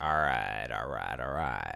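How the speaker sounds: husky, rasping, rough-edged voice. Imitating a man in an armchair with scotch, slow, raspy voice. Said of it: "with his raspy voice".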